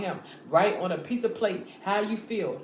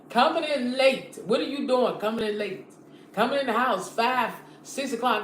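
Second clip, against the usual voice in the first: scolding; 2 semitones higher than usual. Acted. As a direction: drag out "Coming in late" as an accusation. Scolding husband coming home late.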